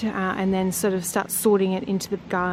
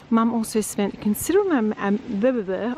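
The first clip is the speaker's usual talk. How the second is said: too tired to get the words out; stumbling over words, worn out; exhausted. Real, not acted. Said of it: "Honestly, I can't even talk".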